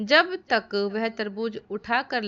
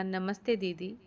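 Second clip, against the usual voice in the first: lovingly; 6 dB quieter than usual. Acted. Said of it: "बच्चा प्यार से बोला".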